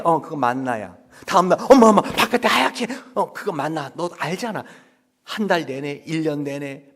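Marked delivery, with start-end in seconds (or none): 1.7-2.9 loud, high repeated "mom, mom"; excited child calling. Acted. A child calling mom about the manna again. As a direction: call out breathlessly again.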